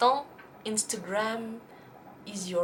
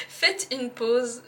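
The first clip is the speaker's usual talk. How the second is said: laughing; 3 semitones higher, 4 dB louder, slower than usual. Real, not acted. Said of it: "Oh là là".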